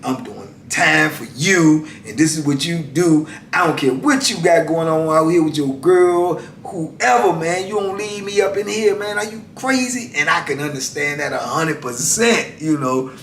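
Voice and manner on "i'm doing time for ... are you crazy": retold angry scolding, pitched higher; mild mock anger at a twin brother; mad. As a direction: chew out the brother who left him inside. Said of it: "He was mad".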